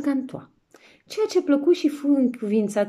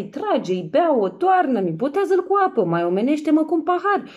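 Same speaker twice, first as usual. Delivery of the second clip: loud, high tavern shouts of drinkers; rowdy drinking calls; 7 semitones higher, 4 dB louder than usual. Acted. Drinkers at the feast shouting for wine, loud. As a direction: call out for more wine, rising and loud. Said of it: "doar ce auzeai".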